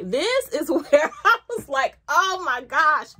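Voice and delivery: slow, loud, delighted gasp of wonder; amazed. Real, not acted. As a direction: blown away, savour each word. Blown away by the scent.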